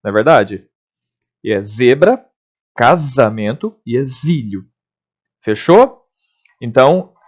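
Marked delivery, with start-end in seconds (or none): 1.6-4.6 "zebra, casamento, exílio" with buzzing z, spaced out; measured model reading with voiced z; correct voiced z. Shown as a demonstration. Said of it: "eu leio casamento e eu leio exílio".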